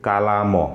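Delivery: কালাম read as "kalamo" with a final o vowel; the learner's wrong reading of কালাম; foreigner's misreading. Shown as a demonstration. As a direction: sound out কালাম with a stray o at the end. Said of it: "তাহলে তারা কিভাবে পড়বে?".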